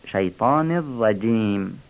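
slow الرجیم with a crisp, fine "j"; sharp, delicate جیم. Shown as a demonstration. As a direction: make the ج of الرجیم sharp and light. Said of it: "تیز و ظریف بگیم". (الرجیم با جیم تیز و ظریف)

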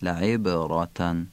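لعبرتن slowly, with the b bounced before "ra"; qalqala on B. Shown as a demonstration. Teacher demonstrating qalqala in لعبرتن, bounced b. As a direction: release the ب of لعبرتن with a small echo. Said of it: "بی لعبرتن قلقله داره".

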